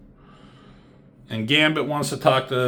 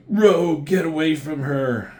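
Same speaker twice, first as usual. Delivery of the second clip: calling out; 5 semitones higher than usual. Retold or imitated. Retold hero calling out in fight.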